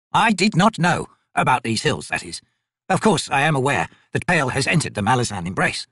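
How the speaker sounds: lightly voiced, formal old merchant; humble old trader. Old trader explains himself to soldiers, mildly anxious and formal. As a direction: plead poverty with careful courtesy.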